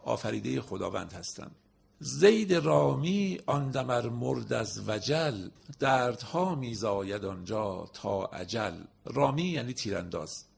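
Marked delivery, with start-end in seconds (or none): 2.0-8.7 slow, louder verse reading; poem recitation. Acted. Teacher declaiming a couplet to the class, slow and louder.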